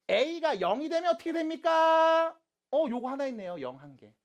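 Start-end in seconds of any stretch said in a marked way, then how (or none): 0.1-2.4 high, loud, drawn-out question; calling out. Real, not acted. Teacher asking the class about the zero case, calling out loudly. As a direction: call it out to the whole class, holding the last syllable.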